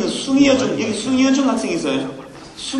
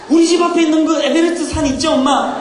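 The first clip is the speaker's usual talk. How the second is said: raised pitch, breathlessly recounting a miracle; excited testimony; 3 semitones higher than usual. Acted. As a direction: act a thrilled young ant telling mom. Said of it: "막 흥분하면서 들려주는데". (흥분해서 기적을 간증하는 새끼 개미 흉내)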